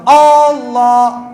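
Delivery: اللہ with the opening A drawn out very long; first alif stretched. Shown as a demonstration. Teacher demonstrating the wrong stretched alif to worshippers. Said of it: "اس کو لمبا کر دینا".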